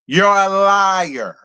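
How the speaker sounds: each word drawn out slowly; slow accusation. Real, not acted. Vlogger calling Lisa a liar, slow and deliberate. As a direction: spell out "You're a liar" slowly.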